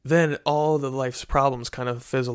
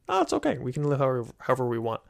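breezy New Ager; 3 dB quieter, faster than usual. Retold or imitated. Youth talk, mimicking New Agers' carefree reply, light mock voice. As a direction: toss it off like nothing matters. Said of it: "And they would say".

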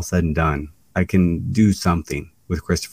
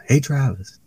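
retold yell; 8 semitones higher than usual. Someone backstage calling the wrestler over, mock yell. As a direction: imitate someone calling for you. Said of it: "somebody yells".

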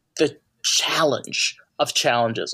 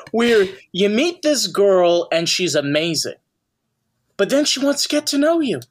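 Seinfeld impression; 3 semitones higher than usual. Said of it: "Seinfeld getting up on the stage and being like".

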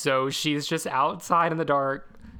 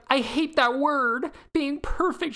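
imitating Loretta; 10 semitones higher than usual. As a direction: play the AI girl who resents being perfect. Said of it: "Loretta's like".

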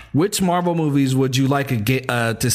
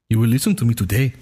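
put-on African accent, commanding; T'Challa voice; 3 semitones lower than usual. Co-host attempting the requested voice, mock African accent. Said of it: "do the T'Challa voice".

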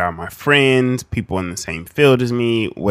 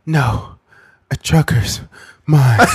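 mock slave; 4 semitones higher, 5 dB louder, slower than usual. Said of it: "we'd be like".

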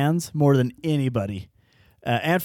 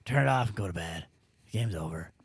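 mock wife; 5 semitones lower, 8 dB quieter than usual. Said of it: "And she's like".

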